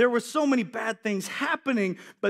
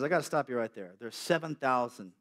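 gentle voice of God; 4 semitones lower than usual. Acted. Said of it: "And he says".

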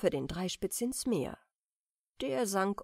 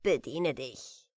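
a lightly voiced merman host, easy and generous; the merrow offering drinks, slowing at the end; jovial old merman.

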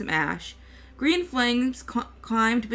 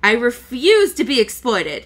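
wicked fire demon; 8 dB louder than usual. A narrator's reading. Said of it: "at her wickedly".

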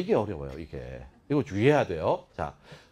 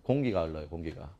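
ordinary talk, nothing marked

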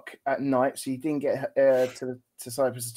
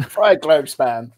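slow, louder 'Fly, Globe, Span'; broken into syllables; 6 dB louder, slower than usual. Shown as a demonstration. Co-host trying the tricky airline name himself, slowly broken up. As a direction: echo the name with each word set apart. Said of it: "break it up into three syllables".

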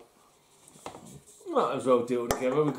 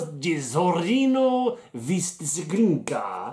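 mock Slovenian accent; slower than usual. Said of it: "let's put on my best Slovenian accent".

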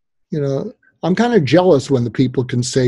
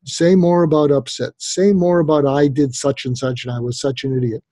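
gentle prompting. Shown as a demonstration. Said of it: "you say".

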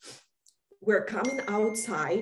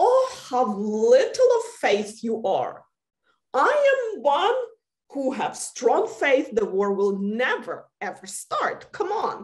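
overconfident dismissal; 3 semitones higher, 3 dB louder than usual. Retold or imitated. Her past overconfident self quoted.

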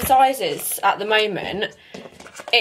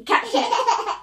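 put-on excited baby talk. Playing with toddler.

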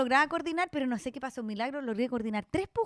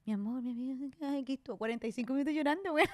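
put-on softer tender baby talk; soft cooing; 6 dB quieter than usual. Mother sweet-talking her crying baby, soft cooing. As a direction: coo to the newborn.

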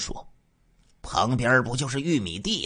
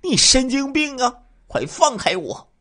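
much higher, louder panicked cry; struggling scream; 5 dB louder than usual. Acted. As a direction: yell while fighting for breath. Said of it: "拼命挣扎说". (拼命挣扎尖叫)

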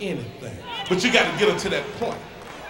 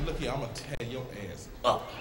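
low boastful threat; 10 semitones lower, 14 dB quieter than usual. Retold or imitated. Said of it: "look my woman in the eye and say".

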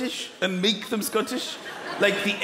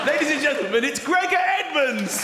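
announcer intro; 7 semitones higher than usual. Acted. Comedian introducing the strongman to the crowd, booming ring announcer. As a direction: present him like a boxing champ.

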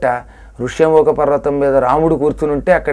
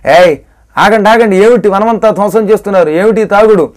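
acted challenge, raised pitch; scolding guard; 3 semitones higher than usual. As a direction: call out to halt the wreckers. Guard confronts rampaging monkeys. (అడ్డగిస్తూ గద్దింపు నటన)

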